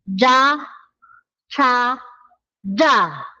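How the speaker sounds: cha with breath, ja tense, ja plain; Korean j and ch sounds. Shown as a demonstration. Teacher comparing three j sounds, contrasting j. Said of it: "Comparison nga ng tatlo".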